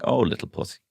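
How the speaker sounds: put-on cutesy kid voice, high and sweet; little girl voice. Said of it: "six-year-old women being like".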